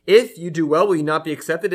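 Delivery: forceful rhetorical question; emphatic reread. Acted. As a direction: lean on it like a warning. Lord questions Cain, reread with force.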